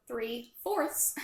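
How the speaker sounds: speaking through a numb mouth; slow, careful numb-mouthed words. Real, not acted. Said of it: "My mouth is numb".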